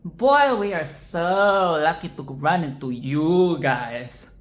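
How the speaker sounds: put-on slow drawn-out sarcasm with a loud "Boy"; mock delight dripping with sarcasm; sarcastic. Shown as a demonstration. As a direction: say it so nobody believes you. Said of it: "will come off as".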